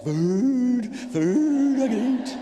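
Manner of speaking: ravenous excitement. Retold or imitated. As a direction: yelp it like a starving man spotting dinner. Starving man rushing to food.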